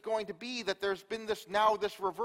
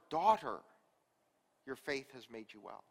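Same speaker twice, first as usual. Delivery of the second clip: tender, not mad; 5 semitones lower than usual. Retold or imitated. Jesus tenderly tells the healed woman she is well. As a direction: reassure her like a father. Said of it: "He's not mad".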